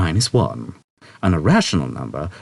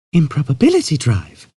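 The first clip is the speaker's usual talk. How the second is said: patiently; 9 semitones higher, 4 dB louder than usual. A narrator's reading. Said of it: "she said patiently".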